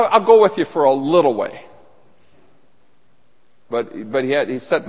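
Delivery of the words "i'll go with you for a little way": "little" punched out louder than the words after it; stress on LITTLE. Acted. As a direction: come down hard on "little". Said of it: "I stress this word right here".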